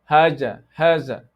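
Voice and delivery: "haja, haza" with dz or z for th; wrong tongue-inside sound. Shown as a demonstration. Teacher demonstrates another mistake, tongue kept inside. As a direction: keep the tongue behind teeth in "haza". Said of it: "This is also wrong".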